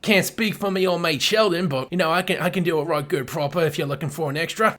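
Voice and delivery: loud, hammed-up British accent. Shown as a demonstration. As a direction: lay the British accent on thick. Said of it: "pretty good proper British accent".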